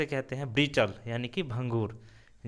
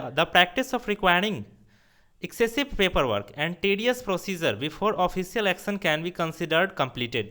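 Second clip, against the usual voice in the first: slow dictation; 3 semitones higher, much slower than usual. Shown as a demonstration. Teacher reads definition aloud.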